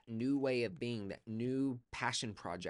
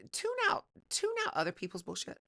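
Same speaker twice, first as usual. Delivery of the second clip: emphatic command; 5 dB louder than usual. Real, not acted. Emphatic advice, loud and high.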